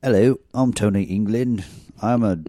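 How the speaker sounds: high, loud hammy vampire introduction; vampire name voice. Acted. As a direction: introduce yourself like a cheesy vampire. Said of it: "What is that vampire made-up name, Dan?".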